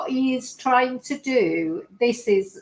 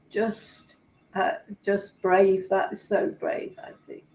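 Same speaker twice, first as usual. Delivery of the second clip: choked up, softer; 3 semitones lower, 5 dB quieter than usual. Real, not acted. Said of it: "it just makes me cry".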